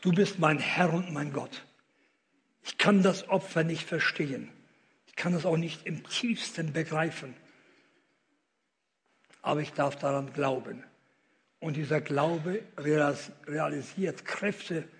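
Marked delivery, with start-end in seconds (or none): 0.0-10.8 guided prayer. Shown as a demonstration.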